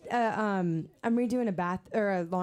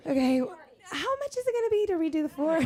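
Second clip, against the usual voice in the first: higher-pitched, half-laughing mock dismay; 5 semitones higher than usual. Homeowner to contractor over wrongly coloured tiles, mock dismay. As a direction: act jokingly appalled, pitch lifted. Acted alarm at wrong floor, then kidding.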